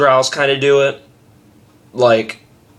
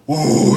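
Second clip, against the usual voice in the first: weak ooh; 4 semitones higher than usual. Shown as a demonstration. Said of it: "Or instead of".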